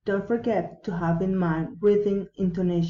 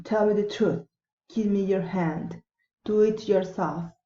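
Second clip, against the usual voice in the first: commands stepping down to "truth", "hand", "yourself"; measured orders closing downward on "truth", "hand", "yourself"; falling intonation. Shown as a demonstration. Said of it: "falling intonation".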